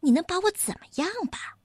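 high, fast cheeky taunt. Acted. Robber ape taunting the piglet hero. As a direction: dare him. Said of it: "嬉皮笑脸地说".

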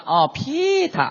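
put-on slow southern-accented Peter. Partner echoing the Shanghai name call, southern accent. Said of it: "这南方口音了".

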